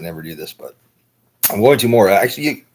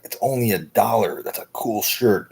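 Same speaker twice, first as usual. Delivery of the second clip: higher, lightly hammed-up shopper excitement; mock shopper's enthusiasm; 4 semitones higher, slower than usual. Thrift-store hoarder justifying a buy to himself, mock enthusiasm. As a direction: imitate yourself talking into a bargain, drawing out the end.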